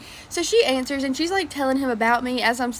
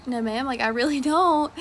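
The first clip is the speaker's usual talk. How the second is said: laughing insistence. Retold or imitated. Repeating refusal, laughing.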